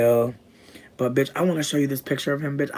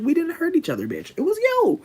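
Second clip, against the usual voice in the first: retold outburst; 12 semitones higher than usual. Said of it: "I'm like".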